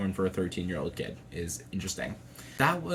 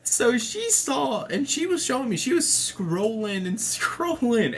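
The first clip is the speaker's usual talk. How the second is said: laughing; 13 semitones higher, 4 dB louder than usual. Real, not acted. Laughing while recalling mom scrolling.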